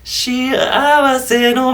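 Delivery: slow creaky edge voice; vocal fry. Shown as a demonstration. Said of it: "ちょくちょくエッジボイスが入ります".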